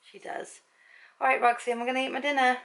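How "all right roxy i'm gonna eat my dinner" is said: higher, lifted voice for the dog; pet-owner singsong, pitched up; talking to pet. Real, not acted. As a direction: chirp it over to your dog.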